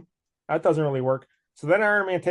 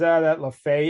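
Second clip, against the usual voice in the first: mild mock anger; 5 dB louder than usual. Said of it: "he's all mad".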